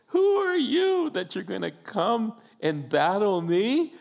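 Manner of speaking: high, taunting challenge without real laughter; mocking disbelief. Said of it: "he's laughing at him like".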